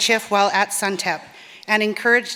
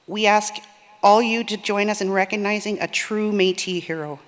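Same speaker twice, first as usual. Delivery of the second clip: shaky voice; 3 dB louder than usual. Real, not acted. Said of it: "Sorry for my shaky voice".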